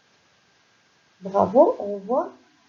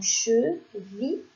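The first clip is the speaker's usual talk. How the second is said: slow sounding out; much slower than usual. Shown as a demonstration. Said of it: "car on dit che".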